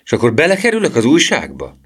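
put-on high, loud, excited boy's question; enthusiastic. A narrator's reading. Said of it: "kiáltotta Emil lelkesen". (lelkesen, izgatottan kérdezve)

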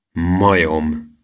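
understated scornful name-calling; contemptuous. A narrator's reading. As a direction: toss out the insult with mild contempt. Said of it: "mondta Kalapocska megvetően". (megvetően odavetve)

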